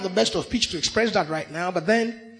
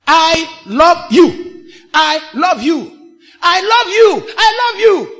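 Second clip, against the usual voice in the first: ardent I love you; 5 semitones higher, 9 dB louder, slower than usual. Shown as a demonstration. Preacher acts an ardent declaration.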